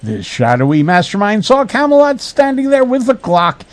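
hammed-up suspense narration; melodramatic narration. A narrator's reading. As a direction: narrate it as overblown bad prose. Reads bad prose melodramatically.

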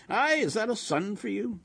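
put-on high, sing-song old woman; Yiddish-inflected kvelling; admiring old wife. A narrator's reading. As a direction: marvel aloud at a devoted son. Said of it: "rocking her head".

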